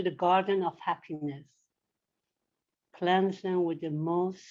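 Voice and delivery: measured, reverent prayer reading; solemn prayer. Acted. Reading a prayer for the departed Douglas, solemn and reverent.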